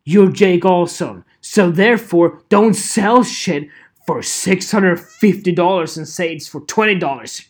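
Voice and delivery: loud, emphatic telling-off; hammed-up indignant lecture; mock scolding. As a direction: call out the seller in a playful rant.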